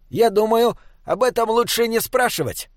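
high-pitched, playful troll voice; mischievous troll. A narrator's reading. Troll dodging the boy's question about soup, mischievous. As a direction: tease him with a sly smile, pitched well up. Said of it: "озорно улыбнулся Бинобик".

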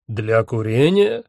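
slow, haughty query rising at the end; drawn-out, arrogant character voice; haughty echo question. A narrator's reading. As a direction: query it with lordly disbelief. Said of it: "надменно переспросил Один".

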